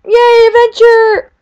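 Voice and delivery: gleeful drawn-out cheer. Real, not acted. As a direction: celebrate the start of an adventure. Cheering while jumping into cave.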